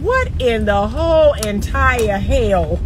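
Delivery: disbelief. Real, not acted. Disbelief at women's claim.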